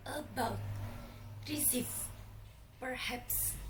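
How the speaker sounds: "about," "receive," "perhaps," each weighted on its end; final-syllable stress. Shown as a demonstration. Teacher giving examples of "about," "receive," "perhaps," final-syllable stress. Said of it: "stress is in the end".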